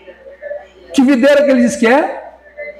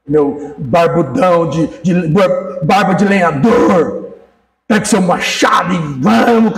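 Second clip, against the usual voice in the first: hammed-up wife flattery; 3 semitones lower, slower than usual. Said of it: "Ela fala assim".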